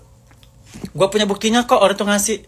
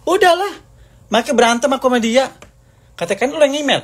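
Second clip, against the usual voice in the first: much higher, louder exasperated cry; exasperated outburst; 9 semitones higher, 3 dB louder than usual. Real, not acted. Fed up with the fight, a high loud cry. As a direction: throw up your hands and shout it.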